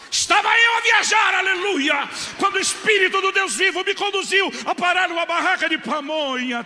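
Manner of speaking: over-the-top revival preacher voice; pentecostal preacher parody. Shown as a demonstration. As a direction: ham it up like a fiery Pentecostal preacher telling a miracle. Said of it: "se eu fosse contar a versão pentecostal, seria mais ou menos assim".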